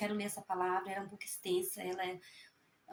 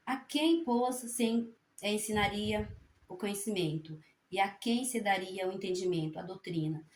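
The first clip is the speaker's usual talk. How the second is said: scripture reading aloud; 3 dB louder than usual. Real, not acted. Resuming Isaiah for fellow believers, emphatic scripture reading. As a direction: read the questions out emphatically.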